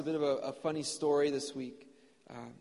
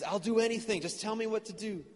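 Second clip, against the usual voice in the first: eager pleading; 5 semitones higher than usual. Acted. Jack pleads with God.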